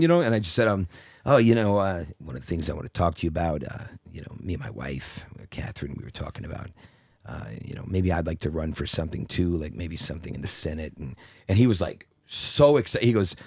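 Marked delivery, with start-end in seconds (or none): 1.2-11.0 lower, much softer Douglas impression; put-on Michael Douglas voice. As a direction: speak low and hushed as Michael Douglas. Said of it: "I was affectating my voice".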